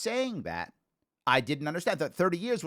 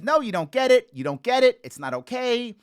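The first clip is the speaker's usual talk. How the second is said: louder and higher, insistent no; angry protest; 7 semitones higher, 7 dB louder than usual. Retold or imitated. The black kid refusing the apology from Randy's son, angry and loud. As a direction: push back hard, he is not having it.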